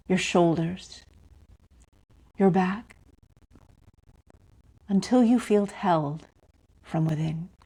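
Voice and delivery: calm meditation guide with long pauses; unhurried phrases, each left to settle in silence; guided meditation. Real, not acted. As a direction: lead them gently inward, pausing between phrases.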